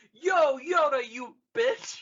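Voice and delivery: high, loud hammed-up yell; mock yell. Luke hollering insults at Yoda, hammed up. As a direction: bellow it like a brat.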